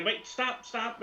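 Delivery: high Russian woman halting someone; high-pitched Russian influencer; Victoria Lapshina. Acted. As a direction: interrupt in a high, put-on Russian voice. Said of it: "she's stopping so her cameraman can".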